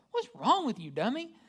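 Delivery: high, loud self-scolding; scolding myself. Retold or imitated. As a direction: snap at yourself like a frustrated parent. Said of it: "It's just like".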